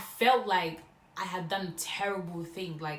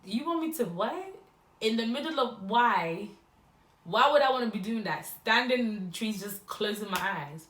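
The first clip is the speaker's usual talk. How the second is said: high, louder, disbelieving protest; incredulous outburst; 3 semitones higher, 4 dB louder than usual. Retold or imitated. Retelling her shocked reply to the boy, incredulous and louder. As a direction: act like he asked something absurd.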